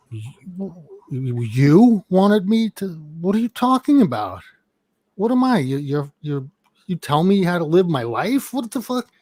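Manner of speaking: retold angry quarrel.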